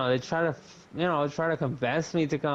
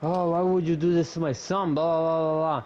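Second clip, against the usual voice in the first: higher, lightly mocked nagging aunt voice; mocking the scolding aunt; 4 semitones higher, 3 dB louder than usual. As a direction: parody her scolding a little higher. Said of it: "And she told me".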